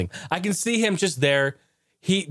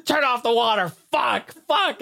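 higher, exasperated imitation; mock the guy pleading, pitched up; neighbor cursing; 9 semitones higher, slower than usual. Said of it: "he's sitting there going".

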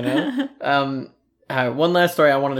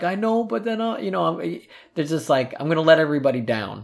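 higher-pitched imitation of an upset child; retold tearful protest; 5 semitones higher than usual. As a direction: whine lightly like a worried kid. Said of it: "I'm, like, crying".

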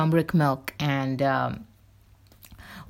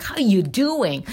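slow, amateur New York imitation; drawn-out mock New York accent; attempted New York accent; 3 semitones higher, slower than usual. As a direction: try a New Yorker's greeting, not quite getting it. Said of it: "I can't do it in that accent".

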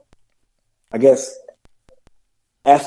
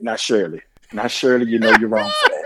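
put-on old dad teasing; 5 semitones lower than usual. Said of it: "in the way he said".

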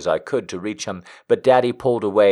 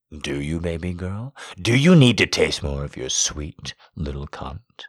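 playful; 4 semitones lower than usual. A narrator's reading. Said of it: "he asked playfully".

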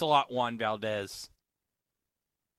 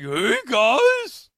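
Nutcracker voice; 10 semitones higher, 5 dB louder than usual. Retold or imitated. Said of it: "The Nutcracker's like".

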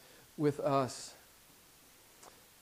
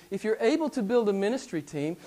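mock sarcastic; 3 semitones higher than usual. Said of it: "he said sarcastically".

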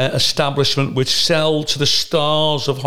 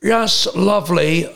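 much higher, very slow savouring voice; Brian Badondi; 6 semitones higher, slower than usual. Brian Badondi tasting the expensive mozzarella, higher and slow. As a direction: savour every word like a pompous connoisseur.

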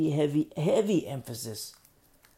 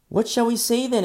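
emphatic reading; 10 semitones higher, 10 dB louder than usual. Acted. Reading scripture aloud.

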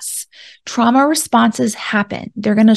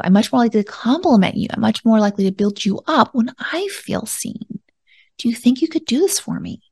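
tender honest request. Shown as a demonstration. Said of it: "here's what honesty would sound like in this situation".

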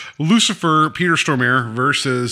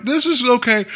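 strained okay; 11 semitones higher than usual. Retold or imitated. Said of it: "I'm like".

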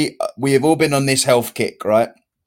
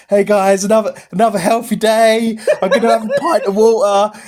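imitating a chirpy check-in, higher voice; mock cheery; 4 semitones higher than usual. Friend reciting his health updates to the guys, mock cheery. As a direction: send up a pleased-with-himself update. Mimicking his own group messages.

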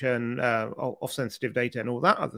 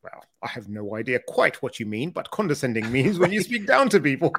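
condescending British. Pretend. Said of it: "you sound so condescending".

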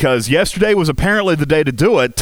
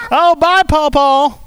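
calling out; 11 semitones higher, slower than usual. Real, not acted. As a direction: call out bye across the yard. Calling goodbye to grandpa.

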